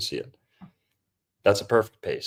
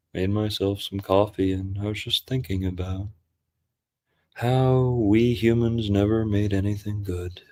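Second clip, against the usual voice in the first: lightly put-on hypnotic narrator, unhurried. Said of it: "he's actually calling in right now".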